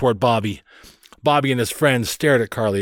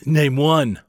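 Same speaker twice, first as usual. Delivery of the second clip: louder, higher curt dare; challenging older brother; 5 semitones higher, 5 dB louder than usual. A narrator's reading. Bobby daring his sister, challenging. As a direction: throw down a challenge as a boy.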